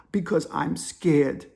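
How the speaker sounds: put-on very slow African-accented answer; imitated scared African caller. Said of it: "The African dude's whispering".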